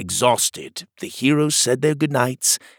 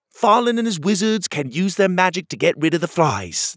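advising hero; 8 semitones higher than usual. A narrator's reading.

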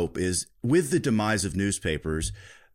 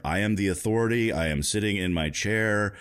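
flat robotic newsreader voice; robot voice, stiff and even, like a 1970s anchor. Pretend. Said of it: "in a robotic voice".

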